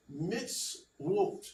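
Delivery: "mitzvot" as mits-WOHT, in two separated beats; ancient Hebrew pronunciation. Shown as a demonstration. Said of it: "manner in which it would have been pronounced".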